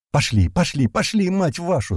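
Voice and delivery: high, urgent rallying yell; high-pitched commanding shout; yelled order. A narrator's reading. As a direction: drive the squad on, stretching the curse. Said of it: "заорал я".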